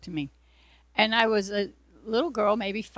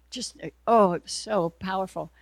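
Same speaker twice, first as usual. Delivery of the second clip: ordinary talk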